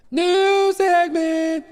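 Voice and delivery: high, slow, loud announcer call. Pretend. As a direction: announce the new segment grandly. Announcer style segment call.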